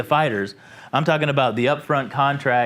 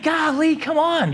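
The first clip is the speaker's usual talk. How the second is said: exasperated golly; 12 semitones higher than usual. Retold or imitated. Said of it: "I'm like".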